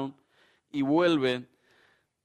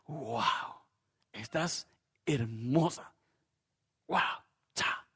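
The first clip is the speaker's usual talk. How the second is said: soft, slow admiring compliment to the wife; admiring husband; 4 dB quieter, slower than usual. Pretend. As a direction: breathe it out like you're dazzled by her. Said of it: "Una vez a la semana le iba a decir a su novia".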